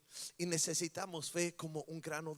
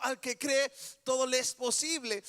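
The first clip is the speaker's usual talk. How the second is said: emphatic preached line; 5 semitones higher, 7 dB louder than usual. Acted. Repeated as the loud climax.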